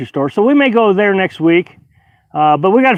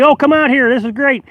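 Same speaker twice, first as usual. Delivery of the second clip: mock gushing invite; 6 semitones higher than usual. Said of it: "tell everybody".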